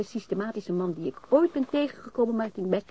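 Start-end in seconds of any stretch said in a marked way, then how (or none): none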